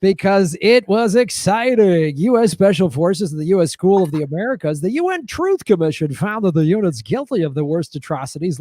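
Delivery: hosted read-out of grim facts; lightly hammed-up announcer delivery; game show host. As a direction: read atrocities like quiz show copy. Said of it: "read about death squads in the game show voice".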